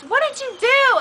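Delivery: lightly voiced high-pitched mom question; imitated mom. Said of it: "She goes".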